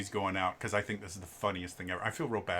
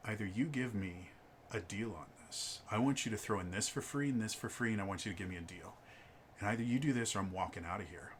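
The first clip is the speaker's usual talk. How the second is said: hushed ultimatum; 8 dB quieter than usual. Retold or imitated. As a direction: quietly press the clerk for a deal. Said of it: "he gets real close".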